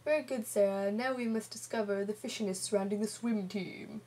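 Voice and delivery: lightly voiced character giving instructions; approving, then setting the task; Giles. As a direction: put on a mild mentor voice. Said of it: "we've got Giles".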